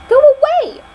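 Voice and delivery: sudden high, loud shout; the dragon roaring Go away at the princess; angry dragon roar. Acted. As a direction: bellow her off the doorstep.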